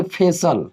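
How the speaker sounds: फेशियल said as "phe-sal"; two beats in फेशियल, falling on "-sal"; correct pronunciation. Shown as a demonstration. Teacher answering own question on the reading, model pronunciation. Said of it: "क्या पढ़ेंगे?".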